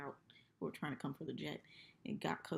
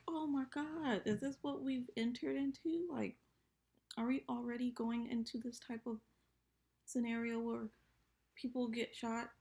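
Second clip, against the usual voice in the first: high shocked voice; mock shock; 7 semitones higher than usual. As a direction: gasp at the horror, hammed up. Her shocked reaction retold.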